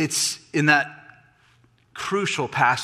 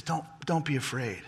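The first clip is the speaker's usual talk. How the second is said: much softer, understated reassurance; gentle comfort; 9 dB quieter than usual. Acted. David comforting Mephibosheth, gently reassuring. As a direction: quietly soothe a frightened visitor.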